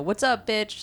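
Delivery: loud calling voice. Explaining what she yells to her friends, acting out a yelled greeting. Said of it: "I'll still yell like".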